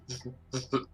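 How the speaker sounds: talking through food; words around a mouthful; mouth full. Acted. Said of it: "a mouthful".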